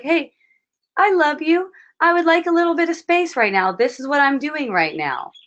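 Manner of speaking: asking his wife for space, kindly but firmly. Pretend. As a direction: lovingly ask for space.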